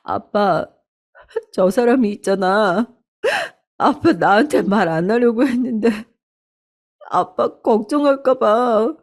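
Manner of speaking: mild tearful confession. Acted. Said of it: "엉엉 울면서 말을 해버렸답니다".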